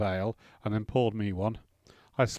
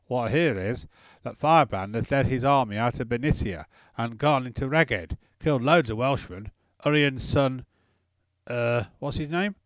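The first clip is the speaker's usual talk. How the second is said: tipsy slurring lord; slurred drunk speech. Acted. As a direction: slur it, half drunk. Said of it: "Wallace slurred his words".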